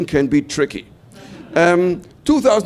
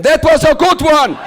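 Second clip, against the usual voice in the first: higher, louder, with a laugh; laughing officer; 9 semitones higher, 6 dB louder than usual. Retold or imitated. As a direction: crack up as the officer. Officer finally laughs, acted.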